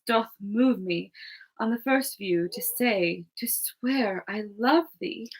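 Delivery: lightly voiced fairy queen, a touch of adoration; reading Titania. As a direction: read it as a smitten queen. Titania reading her speech.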